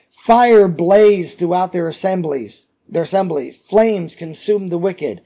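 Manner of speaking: measured, emphatic Bible reading; scripture reading. Acted. Teacher reading a psalm to his class, solemn scripture reading. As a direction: read it out deliberately to a congregation.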